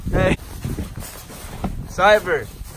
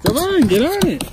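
loud urging; 9 semitones higher, 5 dB louder than usual. Real, not acted. Urging dog onto sled.

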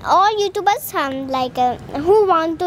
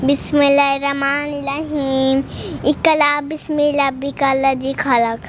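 Quran recitation. Real, not acted.

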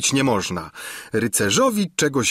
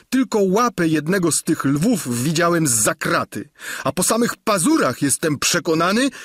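Sancho begging his master, voice raised high; a hint of tears in a squire's plea; tearful pleading; 7 semitones higher than usual. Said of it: "ze łzami w oczach błagał go". (błaganie ze łzami, lekko zagrane)

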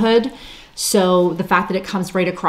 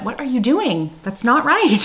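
higher-pitched playful telling-off; mock self-scolding; 5 semitones higher than usual. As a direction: scold yourself in mock disbelief. Retells scolding self over pinning mistake.

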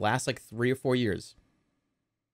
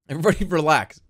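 laughing; faster than usual. Real, not acted. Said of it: "I'm laughing".

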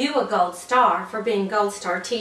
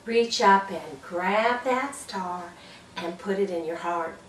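gentle star cheer; 3 semitones lower, 5 dB quieter than usual. Shown as a demonstration.

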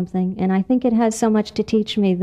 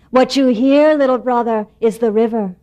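raccoon voice; 2 semitones higher, 4 dB louder than usual. Acted. Raccoon explaining the river to mouse, lightly louder. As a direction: tell it with big kind confidence.

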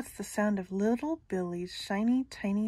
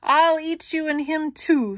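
much higher, loud troll roar; hungry troll; 7 semitones higher, 7 dB louder than usual. Acted. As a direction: roar it out greedily. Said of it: "said Troll".

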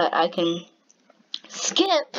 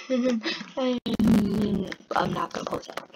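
whisper; 3 dB quieter than usual. Real, not acted. Whispered aside.

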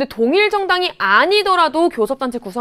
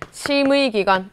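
normal talking voice

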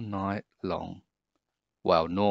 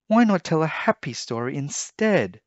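lightly voiced mum; 8 semitones higher than usual. A narrator's reading.

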